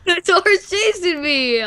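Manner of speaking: slow laughing cry; laughing panic. Real, not acted. Laughing while fleeing.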